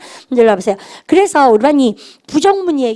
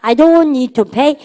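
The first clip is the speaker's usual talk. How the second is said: very slow, words drawn out, a bit louder; slow drill; 4 dB louder, much slower than usual. Shown as a demonstration. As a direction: stretch it out for repetition. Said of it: "시작".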